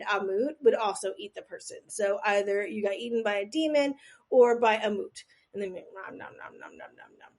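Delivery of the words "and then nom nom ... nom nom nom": whispered nom nom eating sounds; munch it up, fading to a whisper; chomping noises. Pretend. Demon eating the heart.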